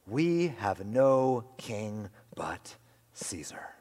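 slow, hushed whisper; whispered declaration. Retold or imitated. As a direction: breathe it out slowly, like a terrible confession. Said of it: "the chief priests answered".

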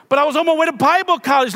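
pleading excuse. Retold or imitated. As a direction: rush out the excuse like a caught teen.

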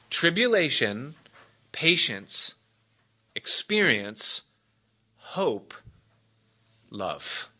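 each word set apart by a pause, sinking to a hush on love; measured list. Shown as a demonstration. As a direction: count the stages off slowly. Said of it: "listing the stages with pauses".

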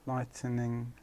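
"Lightning" in three syllables, light-uh-ning; extra syllable in lightning. Shown as a demonstration. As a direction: slip an extra vowel after the T in "Lightning". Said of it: "put an extra T in it".

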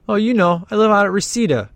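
mock girl voice.

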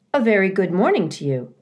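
robot's hearty, friendly call; friendly booming voice. Acted. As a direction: call out a friendly hello across water. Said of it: "the robot's friendly voice boomed over the water".

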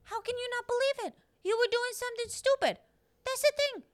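high, fast disbelieving scold; incredulous scolding. Acted. Mocking a careless person.

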